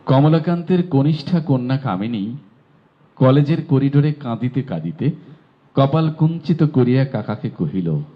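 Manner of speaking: clear, careful recitation of the passage; reading aloud. Shown as a demonstration. Teacher reading the passage aloud for students. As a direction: read the tongue twister for students to copy. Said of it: "আমি পড়ে দিচ্ছি".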